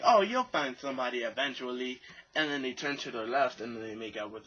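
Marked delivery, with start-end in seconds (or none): 0.0-2.0 mock girl voice. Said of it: "girls say, they'll be like".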